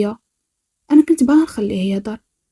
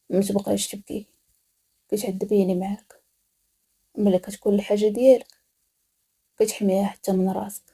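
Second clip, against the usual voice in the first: much softer, close and menacing; hushed captor; 7 dB quieter than usual. Acted. Captor softly scolding his crying captive. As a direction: lean in and say it softly, like a threat.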